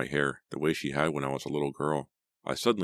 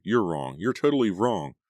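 building higher and louder, emphatic; relieved denial; 5 semitones higher, 4 dB louder than usual. A narrator's reading. Natalie relieved Keith guessed wrong, emphatic excited denial. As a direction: protest joyfully, rising on the second sentence.

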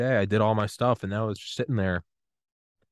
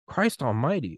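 higher-pitched mock exasperation; retold eye-rolling exasperation; 5 semitones higher than usual. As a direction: groan about it with an eye-roll. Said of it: "I was rolling my eyes".

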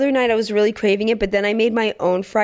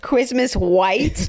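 mocking baby talk; much slower than usual. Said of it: "How do you say lights in a baby voice".

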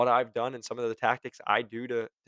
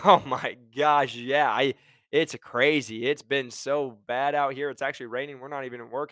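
friendly, opening up; 4 dB louder than usual. Retold or imitated. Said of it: "their voice went from being like ... to".

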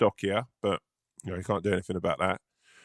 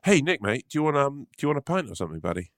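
a touch higher and brighter-pitched, easy mate offer; retry it as a friendly pal; redone friendly voice; 4 semitones higher than usual. Acted. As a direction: friend redoing the pint offer more naturally. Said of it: "let's start again".

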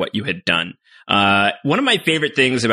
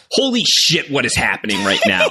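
retold shock. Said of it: "It's like".

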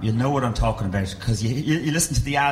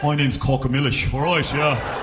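put-on Trinity student accent; slower than usual. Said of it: "they come up to you after a gig and they're like".

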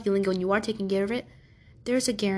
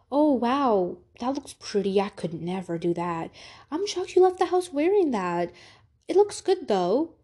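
backhanded compliments; 3 semitones higher, slower than usual. Acted. Imitating people who degrade you with compliments, backhanded. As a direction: imitate a two-faced admirer, pitch swooping up. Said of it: "give you backhanded compliments".

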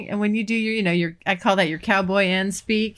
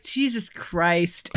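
exasperated; 4 semitones lower, 4 dB quieter, much slower than usual. Retold or imitated. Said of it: "I'm just like".

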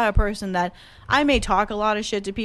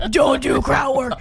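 harsh order as she heard it; 4 semitones higher, slower than usual. Retold or imitated. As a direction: yell it like a harsh reprimand. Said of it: "my filter, I heard".

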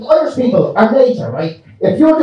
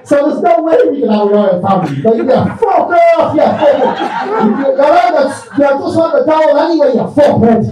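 swearing tirade. Retold or imitated. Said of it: "And Ireland's like".

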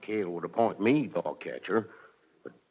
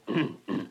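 nervous throat clearing; 5 dB quieter than usual. Acted. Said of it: "I always do that when I'm nervous".

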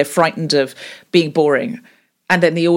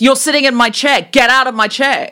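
indignant, higher and louder; big reaction; 7 semitones higher, 4 dB louder than usual. Shown as a demonstration. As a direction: overreact to a stolen chair. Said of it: "big reactions to small things".

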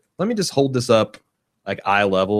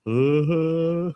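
slow, higher dopey dog voice; dog's inner voice; 9 semitones higher, slower than usual. Pretend. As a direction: dim hungry dog musing. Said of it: "the way dogs really think".

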